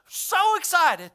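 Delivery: breathy, drawn-out outburst, pitched high; mock intense excitement. Imitating a coworker excited about wars, straining with glee. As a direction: stretch it out in strained, airy glee. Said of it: "he'd get excited".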